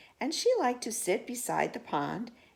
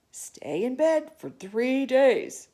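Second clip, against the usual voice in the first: whispered doctor's order; 4 semitones higher, 5 dB louder, slower than usual. Acted. Doctor orders Lion to bed.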